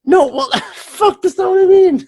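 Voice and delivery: high laughing protest; flustered laugh. Real, not acted. Caught out by friend's joke, laughing.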